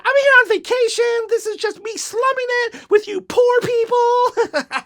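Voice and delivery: very high, loud snooty toy voice; obnoxious bear voice. Pretend. Parent voicing a toy bear to the kids, snooty and high. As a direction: sneer down at the poor folks as a pompous bear. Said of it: "obnoxious bear who just was like".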